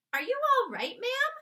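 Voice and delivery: high, loud worried question; the maid anxious over the queen; alarmed maid. Acted. Maid worried about shocked queen.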